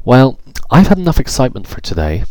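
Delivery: high, loud, rattled exclaim; boy after a fall, exclaiming; shaken relief. Acted. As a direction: say it like you just survived.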